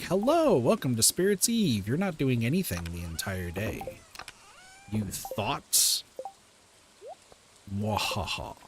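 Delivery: mocking villain taunt, ending in a cackle; sneering panto villain. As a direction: gloat like a pantomime baddie. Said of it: "that's really what Spirits' Eve is".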